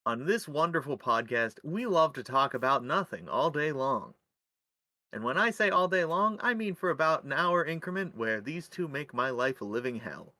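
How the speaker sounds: measured, swinging announcer delivery; podcast host intro. Acted. Host welcoming listeners to Infinite Nonsense in an announcer style. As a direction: present it like a show host.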